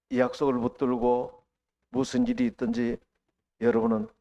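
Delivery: usual speaking voice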